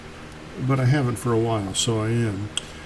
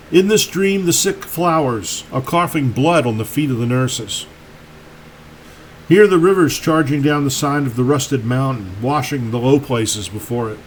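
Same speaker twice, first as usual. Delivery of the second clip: deliberate poetry recital, pausing after each line; poem reading. Acted. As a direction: read it as verse, lines set apart. Reads own poem aloud.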